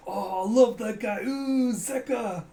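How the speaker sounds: high, loud swooning cheer; hammed-up fan adoration; gushing fan. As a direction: squeal like an adoring fan. Space Karate fans gush over Zeka.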